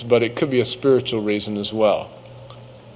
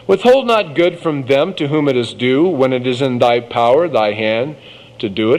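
scripture reading. Acted. Reads Proverbs aloud.

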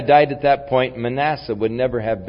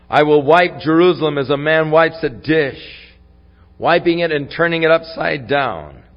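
loud, raised voice of pronouncement; emphatic Bible reading, settling at the end; scripture reading; 3 semitones higher, 5 dB louder, faster than usual. A narrator's reading. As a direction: proclaim God's judgment from the pulpit. Reads God's judgment from scripture.

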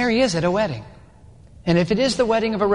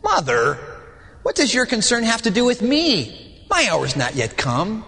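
gentle Jesus; 3 semitones higher than usual. Shown as a demonstration. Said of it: "if you read it again".

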